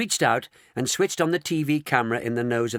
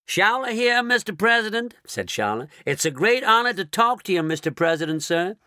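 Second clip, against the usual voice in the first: toadying; 9 semitones higher, 4 dB louder than usual. Acted. Showler toadying to the President.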